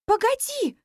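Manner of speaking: high, sharp exclaim. A narrator's reading. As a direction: stop him with a cry. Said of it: "воскликнула я".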